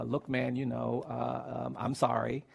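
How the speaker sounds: low, halting boyish apology, retold; imitating an awkward, grudging apology; reluctant apology. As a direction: mumble through a forced sorry, full of ums. Reluctant boy forced to apologise.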